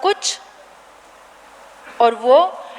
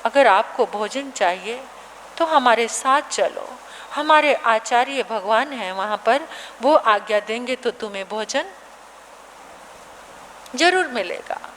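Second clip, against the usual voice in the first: gentle monk; 4 semitones lower, 3 dB quieter than usual. Acted. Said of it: "संत कहने लगे".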